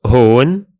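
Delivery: هون repeated as "hon"; Levantine demo word. Shown as a demonstration. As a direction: model هون again as "hon". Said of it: "speakers usually say".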